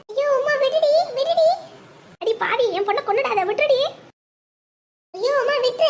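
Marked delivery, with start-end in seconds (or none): 0.1-1.5 a mother begging the attacker to let go, frantically; frantic shout. Acted. Pleading during strangling fight. 3.5-5.9 desperate plea. Acted. Pleading during strangling fight.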